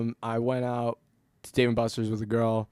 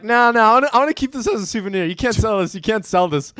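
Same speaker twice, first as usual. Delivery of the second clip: put-on much higher and louder, a childish "mine!"; whiny high protest; 8 semitones higher, 6 dB louder than usual. To Riley Reid, claiming the stolen dildo, high loud whiny protest. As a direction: plead like a kid guarding a toy, high and loud.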